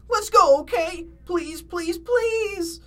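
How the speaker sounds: high, pleading whine; Shaggy whining. A narrator's reading. Shaggy begs Fred to leave, high whine. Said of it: "whined Shaggy".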